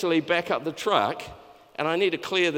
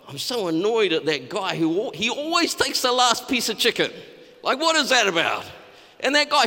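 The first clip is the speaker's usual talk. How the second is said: petty griping monk; 3 semitones higher than usual. Acted. Desert monk griping about his brothers, mock-annoyed. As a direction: grumble like a petty desert monk, half-hammed.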